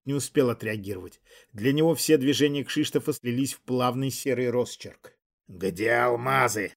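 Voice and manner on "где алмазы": slow, menacing demonic hiss; demanding hiss. Acted. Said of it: "требовательно прошипел демон".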